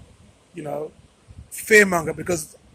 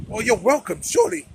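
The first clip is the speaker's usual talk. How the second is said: sarcastic reply; 4 semitones higher, 4 dB louder than usual. Retold or imitated. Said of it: "So I'm like".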